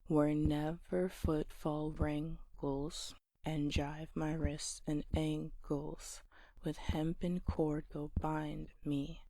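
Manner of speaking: measured alternating stresses, as in "where NEVer FOOTfall"; scanned verse beat. Shown as a demonstration. Teacher demonstrating the beat of seven-syllable lines, scanned verse beat. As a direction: step through each line in weak-strong beats, "nor TELL them WHERE". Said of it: "let's do it with all the seven-syllable lines".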